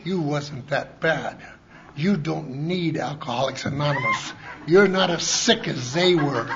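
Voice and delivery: mock wife voice. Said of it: "And she's going".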